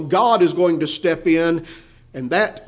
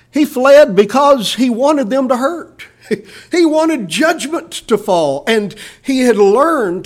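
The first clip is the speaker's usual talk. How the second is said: higher, louder, laughing through the words; amused laughter; 7 semitones higher, 5 dB louder, slower than usual. Real, not acted. Preacher to congregation about Jonah wanting judgment, amused and laughing. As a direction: let a chuckle break into the sentence.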